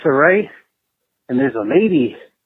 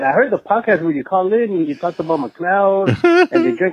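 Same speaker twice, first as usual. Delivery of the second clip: a hint of a woman's higher voice; attempted girl voice; 4 semitones higher than usual. Co-owner's wife praising the caller, attempted girl voice. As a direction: lightly mimic her, pitched up a little. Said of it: "It's kinda hard to".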